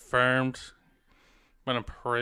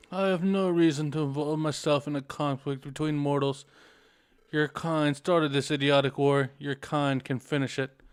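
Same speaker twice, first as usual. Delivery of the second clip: cold ancient spirit scolding; scornful sage voice; 2 semitones higher than usual. Acted.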